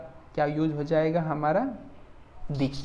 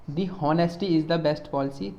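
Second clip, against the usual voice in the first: slow wrong example; slower than usual. Shown as a demonstration. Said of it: "ये wrong sentence है".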